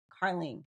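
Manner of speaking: "Carling" ending in an ing sound; short i and ng closing "Carling"; as misspelt. Shown as a demonstration. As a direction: say "Carling" with a final ng. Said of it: "K A R L I N G".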